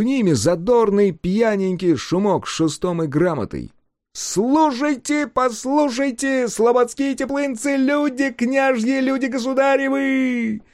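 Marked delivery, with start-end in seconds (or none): 4.1-10.6 high, slow proclamation call; town crier. A narrator's reading. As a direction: cry out to the whole square. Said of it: "раздул он свою лужёную глотку".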